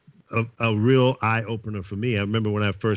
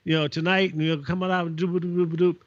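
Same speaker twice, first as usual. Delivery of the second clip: higher-pitched hip radio DJ patter; trying to be hip; 6 semitones higher than usual. Retold or imitated. Newcomer DJ on air in Oakland, trying to be hip. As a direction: play the DJ straining to sound cool. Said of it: "trying to be hip and everything".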